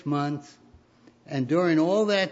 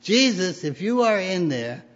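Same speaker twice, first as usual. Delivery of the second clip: high, loud call into the dark pantry; shouted call; 4 semitones higher, 5 dB louder than usual. Acted. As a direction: call out loud for Jesus like a hopeful boy. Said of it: "He shouted".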